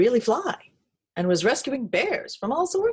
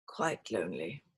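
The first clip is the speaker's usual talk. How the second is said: put-on old teddy voice; 12 semitones lower, 8 dB quieter than usual. Old bear voice.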